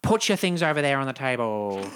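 high, loud salesman voice at a barbecue; Frank Walker voice. Retold or imitated. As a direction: welcome guests like a TV ad host.

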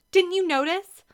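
high, loud, excited question; bursting out. A narrator's reading. Girl presses her sister about her crush, excited and high. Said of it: "Ashley burst out".

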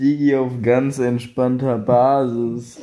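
high, slow, drawn-out parody; mock pick-me boy. Teasing the pick-me boy line, high slow mock voice.

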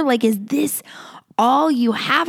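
hushed, breathless whispered question. Retold or imitated. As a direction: whisper it like a secret doubt. Imagined Israelites questioning God.

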